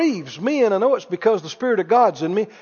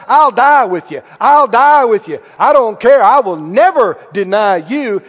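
imitating Peter's loud, insistent pledge; loudly vowing; 6 dB louder than usual. Peter vowing loyalty to the Lord, loud and insistent. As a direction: pledge loyalty loudly, driving each phrase. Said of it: "was the loudest about".

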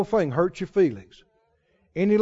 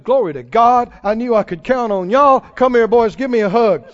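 imagined hearty Jesus; 4 dB louder than usual. Pretend. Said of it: "you might have thought Jesus would".

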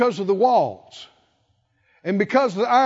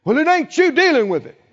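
louder, fast, snapping back; irritated, louder comeback; mad retort; 6 semitones higher, 5 dB louder, faster than usual. Retold or imitated. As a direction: bite back defensively. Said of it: "you can get mad".

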